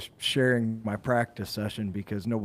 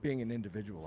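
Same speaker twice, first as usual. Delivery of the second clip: softer, halting respect; sympathetic admiration; 9 dB quieter than usual. Shown as a demonstration. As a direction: quietly offer regretful admiration, feeling for the words. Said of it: "It's more".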